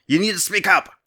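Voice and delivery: high, loud yell at a stranger. A narrator's reading. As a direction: shout to be heard over the crowd. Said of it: "yelled out".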